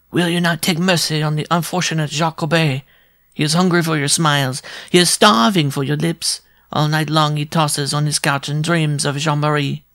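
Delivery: high, piping dwarf suitor; shrill wooing. A narrator's reading. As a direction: plead love in a shrill little voice. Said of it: "in a voice as shrill as a pin scratching".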